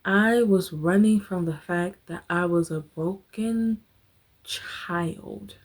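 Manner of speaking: real emotion, breaking off at the end. Real, not acted. Telling her viewers about her broken childhood, voice breaking. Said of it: "I'm about to get emotional".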